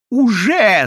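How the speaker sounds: loud, high-pitched cry; excited squeal. A narrator's reading. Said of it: "завизжал Иоанн Польский".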